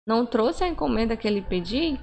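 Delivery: mild surprised indignant question; surprised indignation. Shown as a demonstration. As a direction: sound caught off guard by the missing order. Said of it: "tem aquela surpresa". (surpresa e indignação leves)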